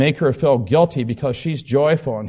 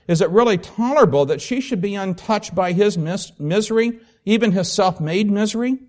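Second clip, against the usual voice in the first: questioning read-aloud, pitched up on the doubts; expressive book reading; 4 semitones higher than usual. Acted. Pupil voicing concern to his teacher, read expressively. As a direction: read it as an earnest, troubled question.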